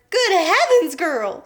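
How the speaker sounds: high, loud screech; a mother shrieking in shock. A narrator's reading. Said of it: "screeched Missus Beauregard".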